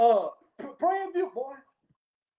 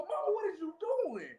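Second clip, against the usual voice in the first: laughing mock exclamation; 6 semitones higher, 7 dB quieter than usual. Mock scolding the adoptive mama.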